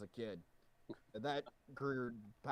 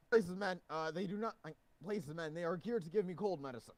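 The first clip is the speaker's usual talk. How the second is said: raised bossy guard voice; 5 semitones higher than usual. Acted. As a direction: bark orders as the guard. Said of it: "impersonating Clarkson".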